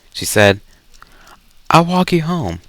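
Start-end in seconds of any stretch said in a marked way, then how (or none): 1.7-2.6 Halo's line slipped into the heroine's higher voice; wrong character voice. Acted. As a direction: start high as if she were speaking, then drop back down. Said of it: "wrong voice".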